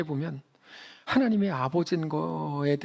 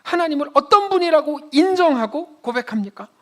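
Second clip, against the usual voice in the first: higher, louder, pressing the question on "어떤"; forceful repeat; 9 semitones higher, 5 dB louder than usual. Shown as a demonstration. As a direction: drive the question home with pulpit force.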